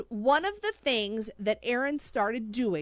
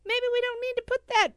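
mock gentle warning; 12 semitones higher, faster than usual. Pretend friend stopping husband.

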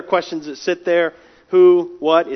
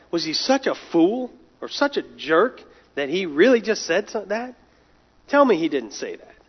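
mocking sneer. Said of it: "mocking God in this very condescending way".

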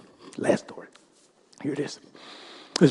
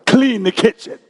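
loud mocking retort, climbing higher at the end; sarcastic; 3 semitones higher, 10 dB louder, faster than usual. Wife sneering at her husband's offer to help, loud and sarcastic. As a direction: throw his offer back at him with scorn. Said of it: "in a sarcastic way".

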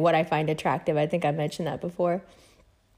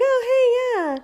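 approving yeah. Acted. Acting reaction to a pretty person.

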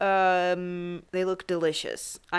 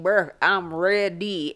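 mock eager; 4 dB louder, slower than usual. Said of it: "So I'm like".

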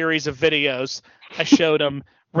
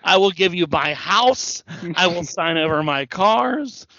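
slow, drawn-out mock plea; lightly hammed-up begging, word by word; imitated begging; slower than usual. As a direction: imitate a wrestler pleading his case. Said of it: "He's like".

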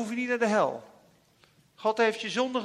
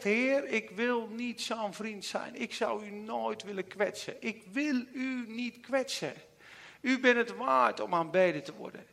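quiet prayer to God; 4 dB quieter than usual. Retold or imitated. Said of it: "En ik heb gezegd".

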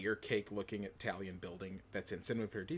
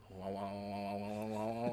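monotone wah wah; 2 semitones lower, 5 dB quieter than usual. Retold or imitated. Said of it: "it just sounded like".

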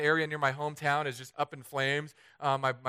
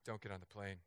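low, much softer deadpan warning; 7 semitones lower, 17 dB quieter than usual. Shown as a demonstration. Telling a stranger at the gate, low and much softer deadpan. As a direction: say it straight-faced and low. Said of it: "straight face".

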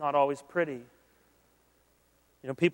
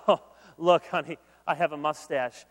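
woman in commercial; 3 dB louder than usual. Retold or imitated. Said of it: "she says".

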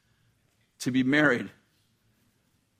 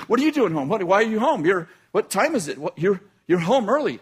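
higher, hurried, a bit louder questions; wife surprised her husband is home early; flustered wife; 5 semitones higher, 4 dB louder than usual. Retold or imitated. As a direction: caught off guard, tumbling over words.

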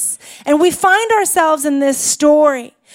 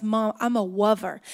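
put-on lisping child; 5 semitones lower, 7 dB quieter than usual. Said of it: "Excuse me, one more time?".

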